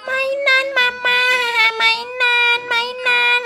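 put-on baby whine. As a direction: whine for the toys like a little one. Baby Tim Tim wants toys.

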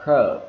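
CURB with the vowel stretched and falling; long vowel. Shown as a demonstration. Teacher showing vowel length matters, "curb" drawn out. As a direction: draw out the vowel in "curb" before the B. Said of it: "anh chị kéo dài ra như vậy".

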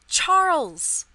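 loud, high cry of a name; distraught, high-pitched outcry; anguished cry. A narrator's reading. Lucy's anguished cry for her husband.

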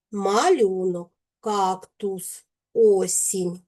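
"малюнок, кактус, осінь" with clearly sounded а, у, і; careful teacher's diction on "малюнок, кактус, осінь"; clear vowels. Shown as a demonstration. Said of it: "вимовляємо чітко".

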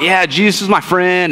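casual shrug of a line, "Yeah, Jesus is my friend" said offhand and slow; nonchalant. Retold or imitated. Preacher mocking believers' casual attitude toward Jesus, nonchalant. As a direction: toss it off like it's no big deal. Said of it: "just a nonchalant".

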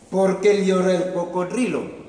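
high, loud chirpy question; little bird voice, eager. Acted. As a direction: squeak it out like a tiny bird. Plover asks a third time.

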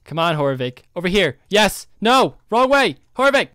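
urgent calls across the map; calling out. Real, not acted. Calling NPC to come over.

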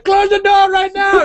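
high, slow shouted order; mock shout. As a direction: bark it high and slow like an angry cabbie. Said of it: "He just starts shouting".

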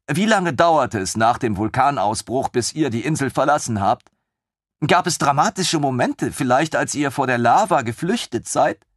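put-on high, excited young officer; lieutenant thrilled by the idea; eager lieutenant. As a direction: bubble over with enthusiasm. Lieutenant questions.

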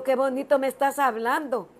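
lifted, glad phone greeting; delighted. Retold or imitated. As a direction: exclaim with pleased relief. Retold joyful reply on the phone.

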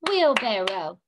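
"Wheelbarrow" in three even beats: wheel-bar-row; clapped syllables. Shown as a demonstration. Teacher clapping with the class, "Wheelbarrow" syllable by syllable. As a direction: punch each syllable of "Wheelbarrow" with a clap. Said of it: "One more time".

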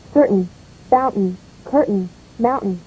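CER-tain, FOUN-tain, CUR-tain, MOUN-tain, with reduced endings; unstressed ending. Shown as a demonstration. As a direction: stress the first syllable of Certain, fountain, curtain, mountain. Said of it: "Unstressed in the noun or adjective form".

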